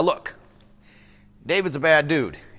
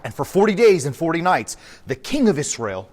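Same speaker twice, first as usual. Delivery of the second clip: usual speaking voice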